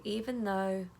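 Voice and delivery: calm self-talk while tapping; gentle affirmation. Shown as a demonstration. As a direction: say it tenderly to yourself. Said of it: "you're gonna tap again and you're gonna say".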